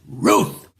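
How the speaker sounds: low, drawn-out barked word; dog bark. Acted. The talking dog names the greatest Yankee, low bark. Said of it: "The dog goes".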